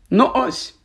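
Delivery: a touch of airy finality; professor wrapping up. Acted. Professor closing his suitcases, airily conclusive.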